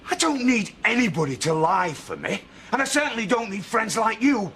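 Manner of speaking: rising anger, ordering her out; angry. Acted. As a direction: throw her out, voice climbing. Ordering accuser out of house.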